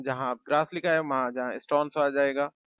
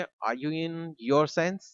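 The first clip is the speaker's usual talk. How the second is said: slow model sentence; 2 semitones higher, much slower than usual. Shown as a demonstration. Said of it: "आप कहेंगे".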